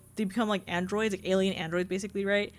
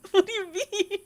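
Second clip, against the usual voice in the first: incredulous; 9 semitones higher than usual. Real, not acted. Still incredulous about skipped graduation.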